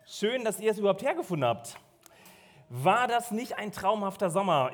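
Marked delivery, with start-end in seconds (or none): 2.7-4.7 „War“ betont und abgesetzt, Rest normal; Betonung auf war. Shown as a demonstration. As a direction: das „War“ deutlich hervorheben. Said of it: "Betonung liegt auf war". (Betonung auf „War“ als Anspielung auf den vergangenen Sommer)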